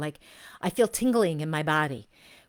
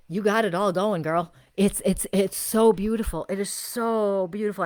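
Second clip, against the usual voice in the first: real excited praise; 3 semitones higher, 5 dB louder than usual. Real, not acted. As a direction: cheer her on with delight. Gushing over a viewer's reading.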